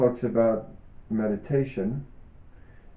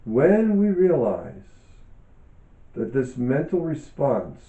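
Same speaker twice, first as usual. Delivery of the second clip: calm, measured reading aloud with pauses; book reading. Acted. Author reading her yoga book to listeners, calm and measured. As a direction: read each phrase thoughtfully, like a teacher sharing a text.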